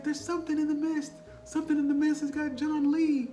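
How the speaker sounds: loud high panicked yelling; frantic shout. Retold or imitated. Old man shouting to the shoppers in terror, loud and high.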